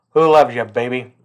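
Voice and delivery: a hint of a bald lollipop-sucking cop; tough TV detective catchphrase. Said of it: "If I had a shaved head and a fucking lollipop".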